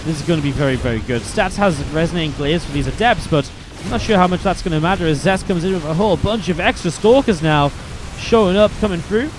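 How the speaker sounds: lively esports commentary, rising with the fight; hyped up play-by-play; play-by-play casting. Acted. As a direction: call the game like a caster. Casting a StarCraft match.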